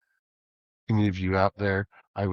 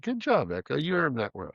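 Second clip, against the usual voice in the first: praise; 5 semitones higher than usual. Real, not acted. Host praising the Echo Dot, high sing-song praise. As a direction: cheer the little speaker on like a proud parent.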